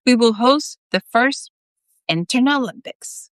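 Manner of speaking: high, slow cat announcing; grand proclamation. A narrator's reading. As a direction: proclaim it slowly like a cat king.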